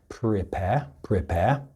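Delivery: "prepare" slowly, R sounded after P, silent at the end; British non-rhotic R. Shown as a demonstration. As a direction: say "prepare" with no final R. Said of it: "typically we don't pronounce the R".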